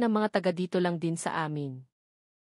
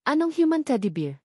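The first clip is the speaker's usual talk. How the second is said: higher, puzzled question, stress on human; bewildered, pitching up on human; puzzled surprise; 6 semitones higher than usual. A narrator's reading. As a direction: ask it baffled, voice lifting on human. Puzzled by boss's pet name.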